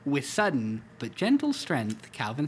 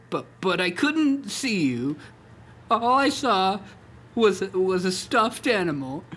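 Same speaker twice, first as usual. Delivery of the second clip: voice breaking; 5 semitones higher, 5 dB louder than usual. Acted. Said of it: "Calvin voice was breaking".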